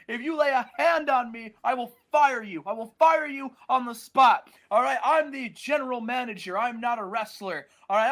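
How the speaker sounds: hammed-up boss warning; threatening Stallone. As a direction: bark the threat then settle. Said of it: "Sylvester Stallone says".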